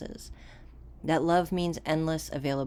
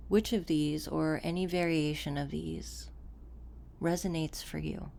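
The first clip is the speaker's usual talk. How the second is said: softer, unhurried delivery with long pauses; guided meditation; 5 dB quieter than usual. Acted. Coach guiding listeners to settle into the body, calm guided meditation. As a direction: guide a listener calmly inward, leaving room between phrases.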